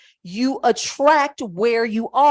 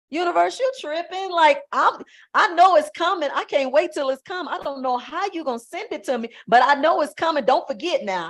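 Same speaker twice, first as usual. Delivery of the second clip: excited confident talk to the universe. Shown as a demonstration. Coach shows viewers how to address the universe, excited and sure. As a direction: tell the universe it's on its way, buzzing. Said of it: "you say what I just told you".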